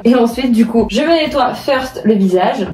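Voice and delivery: slight lisp from teeth strips. Real, not acted. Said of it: "si des fois je zozote".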